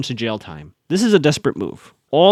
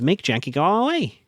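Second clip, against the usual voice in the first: lightly voiced talking doll, higher pitch; a hint of a doll's voice, pitched up; 5 semitones higher than usual. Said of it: "one Aria doll says".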